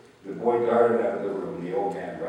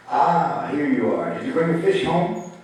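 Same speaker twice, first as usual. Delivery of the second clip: eager greeting; 8 semitones higher, 7 dB louder than usual. A narrator's reading. Grandfather greets boy eagerly.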